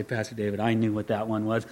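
congregant after service. Retold or imitated. Churchgoer tells the pastor after service, low and soft. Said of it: "you come up to me after and say".

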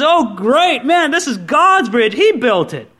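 delighted Paul marveling at God's bridge; excited Paul. Acted. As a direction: gush over the bridge like a thrilled convert. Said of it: "And Paul's so excited".

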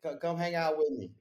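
high, loud friendly invite; excited. Real, not acted. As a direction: pump up the invitation.

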